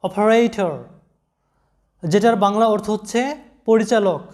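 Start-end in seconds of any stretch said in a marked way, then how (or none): 0.0-0.7 অপারেটর with its ending sounded অর; pronunciation demo. Shown as a demonstration. Teacher models অপারেটর for students, pronunciation demo. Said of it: "এরকম হবে উচ্চারণটা".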